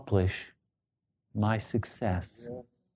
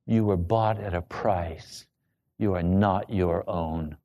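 firm; 4 semitones lower, 4 dB quieter than usual. Retold or imitated. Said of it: "And he said very firmly".

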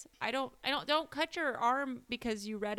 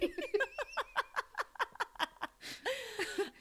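long, high-pitched laughing fit; high giggling that keeps going; big laugh; 14 semitones higher, 6 dB quieter than usual. Real, not acted. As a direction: crack up helplessly at your friend. Cracks up at co-host's boast.

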